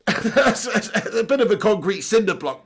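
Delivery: talking through a laugh. Real, not acted. Streamer laughing at his own slab joke. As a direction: get the joke out while chuckling.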